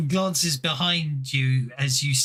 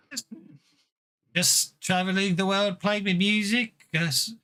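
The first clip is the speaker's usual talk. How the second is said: lightly done Irish fiddler; easygoing answer in an attempted Irish accent; a hint of amateur Irish; bad Irish accent; 3 semitones higher than usual. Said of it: "a bad Irish accent like me".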